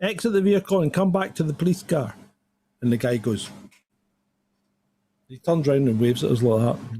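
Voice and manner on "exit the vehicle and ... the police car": higher, commanding police call; PA announcement. Retold or imitated. Officer calling the driver back over the car PA. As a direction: order him back like a megaphone. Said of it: "through the, you know, the P A system".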